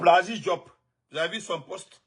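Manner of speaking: normal talking voice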